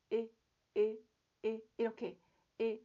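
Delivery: lax, loose e sound; relaxed e. Shown as a demonstration. Teacher demonstrating a lax e. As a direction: let the throat relax on 에. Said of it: "이완하는 거예요".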